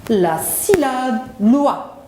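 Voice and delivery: very slow, "loi" set apart; model for repetition. Shown as a demonstration. Teacher asks pupils to repeat, "loi" slow and deliberate. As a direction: stretch "La syllabe", pause, then deliver "loi" clearly. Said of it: "Répétez après moi".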